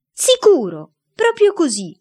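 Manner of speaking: molto più acuto, urlato; urlando. A narrator's reading. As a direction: urlalo come sorella scandalizzata. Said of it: "urlava Ada". (Ada urla alla mamma, scandalizzata)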